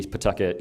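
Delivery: Pawtucket with its first syllable squeezed to a bare P; local pronunciation. Shown as a demonstration. Shop owner demonstrating the local name, Pawtucket said "P'tucket". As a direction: say Pawtucket as "P'tucket", stress on "tuck". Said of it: "It's like a P apostrophe".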